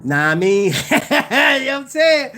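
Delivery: real giggling fit while talking; cracking up. Real, not acted. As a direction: break into laughter mid-sentence. Cracking up at own joke.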